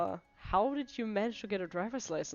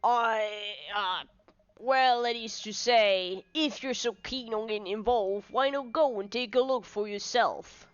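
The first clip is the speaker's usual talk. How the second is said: hesitant police inspector; 3 dB louder than usual. Acted. Inspector lets Layton look around, hesitant concession. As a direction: reluctantly give way in character.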